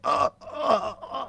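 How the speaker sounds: high choking "ah, ah, ah"; mock choking gasps. Co-host joking about being choked at home, mock choking gasps. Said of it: "They choke me in my house. I'm like".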